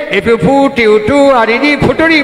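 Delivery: imitated schoolboy spelling out ফুটুরি in chunks; syllable-split reading. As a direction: rattle off the spelling, then land on ফুটুরি. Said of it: "কেটে কেটে ভাগ করে করে পড়তে".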